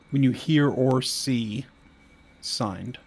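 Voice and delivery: slow, deliberate, each sound clear; slow and careful. Shown as a demonstration. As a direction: spell it out slowly over a bad mic. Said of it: "when I say the hard S's".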